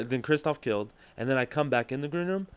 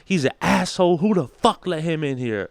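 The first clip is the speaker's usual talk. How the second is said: mock insult; 5 semitones higher, 6 dB louder than usual. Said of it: "but he's like".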